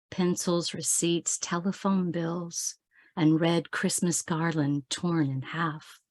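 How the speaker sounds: measured, understated poem delivery with pauses between images; poetry reading. Acted. Poet sharing a Christmas poem with online audience, measured recital. Reads own poem aloud.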